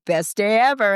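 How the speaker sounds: cheery hallway catchphrase; cheerful greeting. Retold or imitated. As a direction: toss it back brightly. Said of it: "they go".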